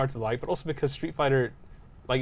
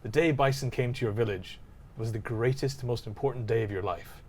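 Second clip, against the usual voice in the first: Bison quote; 4 dB quieter than usual. Retold or imitated. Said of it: "And he goes".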